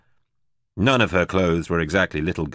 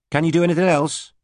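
teasing, higher, playful dare; purring challenge; 10 semitones higher, 3 dB louder than usual. A narrator's reading. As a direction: needle him with a purr. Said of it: "a purring challenge in her voice".

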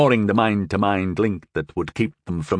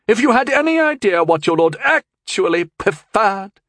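higher, louder reproach; angry reproof; 12 semitones higher, 5 dB louder than usual. A narrator's reading. Christine reproving the cowering servant, angry. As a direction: scold him with bitter anger. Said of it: "Christine reproved angrily".

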